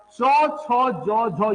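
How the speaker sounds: चौ, छो said sharply, tongue between palate and ridge; teacher demonstrating the Hindi चौ and छो; Hindi sounds demo. Shown as a demonstration. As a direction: tap out चौ छो जो झो. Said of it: "हिंदी में".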